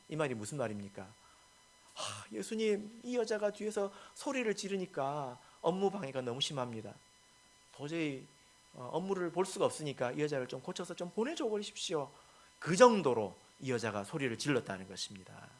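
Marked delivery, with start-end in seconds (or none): 1.0-12.1 higher-pitched acted grumble to the teacher; complaining disciples. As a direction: plead lightly, as if fed up with a nuisance. Preacher voices the disciples' complaint. (하소연하듯 높은 목소리로)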